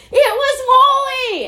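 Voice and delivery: high, loud, drawn-out holler; retold yelling. Teacher wants to tell shoppers the name, yelling. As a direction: yell it as if grabbing strangers to tell them. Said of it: "not a good thing to be yelling about".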